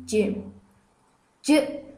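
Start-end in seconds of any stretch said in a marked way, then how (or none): 1.4-1.8 C as a brief sound, not its name; letter sound demo. Shown as a demonstration. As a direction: say C as a short "cı". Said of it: "diye okunur". (C'yi kısa "cı" sesiyle söyle)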